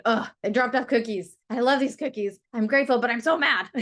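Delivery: a hint of mock resentment; grudging grumble. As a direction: play the annoyed, torn treat-receiver. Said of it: "instead of thinking".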